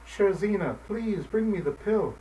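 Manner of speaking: put-on sick old man pleading; sad pleading. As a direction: plead sadly with the cat. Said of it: "sadly repeated the old man".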